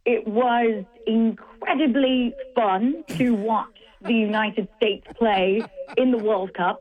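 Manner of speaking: lightly put-on English accent, mostly her own voice; a half-hearted English accent for the listeners. Sports host to radio co-hosts, lightly mock English accent. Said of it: "Let me get my England voice now".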